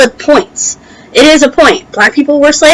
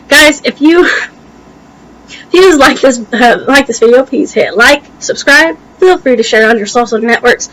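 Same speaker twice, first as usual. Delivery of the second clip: talking around a tongue ring; slightly hampered speech from tongue ring; tongue piercing. Real, not acted. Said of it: "my tongue ring is kinda making it hard".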